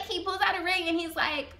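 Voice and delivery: ordinary delivery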